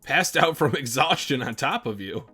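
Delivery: rereads it loud through a laugh; amused repeat, breaking into laughter. Real, not acted. Teasing Andy over his phrasing, laughing. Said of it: "Phrasing, Andy".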